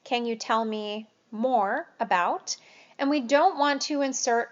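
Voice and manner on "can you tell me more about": slow, even "more" with a rise; unhurried, inviting question; neutral open prompt. Shown as a demonstration. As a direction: ask it slowly and neutrally. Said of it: "explore in neutral ways".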